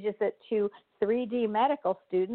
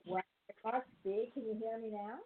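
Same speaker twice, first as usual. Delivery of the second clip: call dropping out; 11 dB quieter, faster than usual. Real, not acted. Bad radio call connection.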